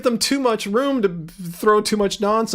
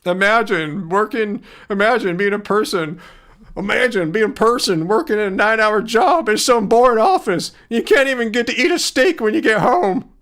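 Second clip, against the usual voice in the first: lightly put-on mocking voice, a bit louder; anti-vegan voice; 4 dB louder than usual. Streamer mocks a meat-eating chatter, lightly put-on anti-vegan voice. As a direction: sneer at the bored office worker in a light put-on voice. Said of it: "That's just my anti-vegan voice there".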